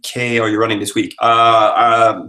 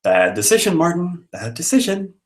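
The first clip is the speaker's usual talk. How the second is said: mock scolding; 8 semitones higher than usual.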